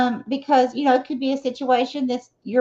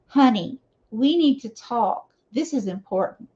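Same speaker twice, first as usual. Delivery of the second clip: a firm, earnest partner getting attention; serious lowered tone; 2 semitones lower than usual. Shown as a demonstration. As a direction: drop into a we-need-to-talk seriousness. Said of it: "You might have to lower your, your tone of voice".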